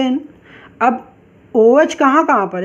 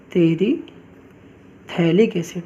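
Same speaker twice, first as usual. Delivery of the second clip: slow careful naming; 4 semitones lower, 4 dB quieter, much slower than usual. Shown as a demonstration. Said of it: "तो ध्यान रखना".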